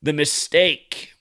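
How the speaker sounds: slow, heavy stress on "mistake"; mocking emphasis. Shown as a demonstration. Mimicking the news headline, with slow stress on "mistake". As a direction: lean hard on "mistake", drawn out. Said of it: "C N N emphasizes mistake".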